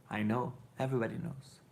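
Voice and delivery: ordinary talk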